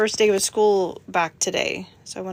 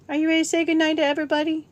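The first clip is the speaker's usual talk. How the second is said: higher sing-song ask; 6 semitones higher, much faster than usual. Real, not acted. Mom coaxing her dog to say goodnight, higher sing-song. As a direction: ask "Are you ready to say goodnight to everybody?" again in a higher, faster, sing-song pet voice. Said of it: "repeated question".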